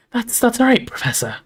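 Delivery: high, halting reassurance; gasping. A narrator's reading. Hermione to professor after being grabbed, gasping. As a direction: Hermione catching her voice, starting high. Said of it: "Hermione gasped".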